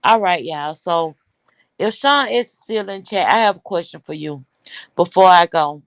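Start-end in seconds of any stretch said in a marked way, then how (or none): 3.3-5.8 breathless after ranting; panting between words; out of breath. Real, not acted. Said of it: "I'm so out of breath".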